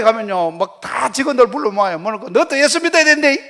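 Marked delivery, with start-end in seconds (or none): 2.3-3.4 eager announcing. Retold or imitated. Convert preaching to his staff.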